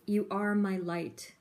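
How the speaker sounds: slow, heartfelt reading of the message; reading the card's words out with feeling; tender reading. Real, not acted. Reading a card message aloud.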